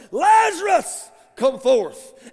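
booming, drawn-out command, pitched high; commanding preacher's shout; loud voice. Acted. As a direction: holler it with full authority to summon him. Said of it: "he says with a loud voice".

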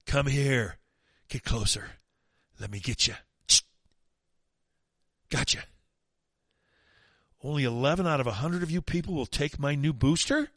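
lightly voiced mad scientist; a hint of a creepy mad scientist. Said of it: "says the mad scientist".

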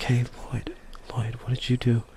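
whisper. Pretend. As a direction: whisper it like a secret. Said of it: "just whisper the whole time".

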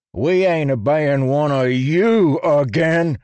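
slow, loud defiant roar; bellowed. A narrator's reading. Human bellowing defiance at the singers. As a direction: bellow your refusal. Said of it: "another bellowed".

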